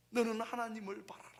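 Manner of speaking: emphatic repeat of the verse; rising proclamation. Shown as a demonstration. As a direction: lift 너는 하나님을 바라라 up with conviction. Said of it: "개역 성경엔 이렇게 말씀하세요".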